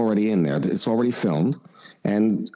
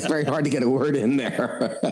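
laughing; 3 semitones higher than usual. Real, not acted. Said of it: "laughing while telling".

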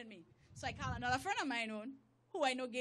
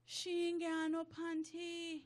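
slow, drawn-out, higher-pitched disbelief; scandalized report; 4 semitones higher, much slower than usual. Retold or imitated. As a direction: draw it out in mock shock. Reenacts scandalized voice note.

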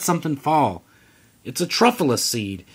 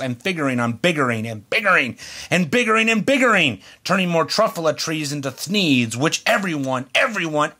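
angry yelling. Acted. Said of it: "I got terribly mad. I yelled at the Lorax".

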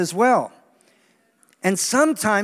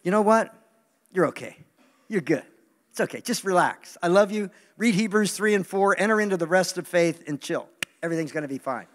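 reassuring God voice. Retold or imitated. God telling a striving believer to relax, gently. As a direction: soothe them kindly. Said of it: "God just wants to say".

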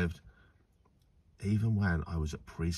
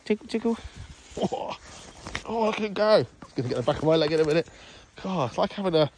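giggly tickle attack; 10 semitones higher, 7 dB louder than usual. Real, not acted. Bird of prey attacking him.

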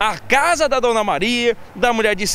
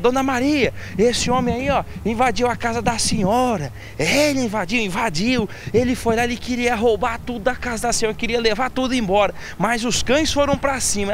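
higher, insistent neighbour voice; neighbour reporting; 4 semitones higher than usual. Retold or imitated. Neighbour tells the owner of the break-in, reporting higher-pitched. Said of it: "ele fala".

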